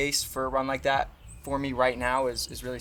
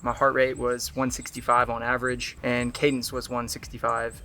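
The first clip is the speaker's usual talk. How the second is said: out of breath; 6 dB louder than usual. Real, not acted.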